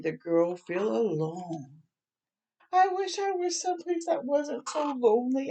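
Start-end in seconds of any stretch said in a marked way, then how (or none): 2.7-5.5 lonely wish. Acted. Girl feels alone.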